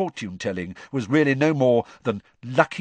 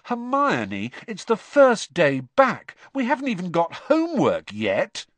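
Ron voice; 9 semitones higher, 3 dB louder than usual. A narrator's reading. Ron protesting to Hermione.

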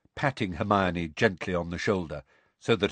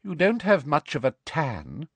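Umbridge; 7 semitones higher than usual. A narrator's reading. Umbridge coldly probes Hagrid in dialogue.

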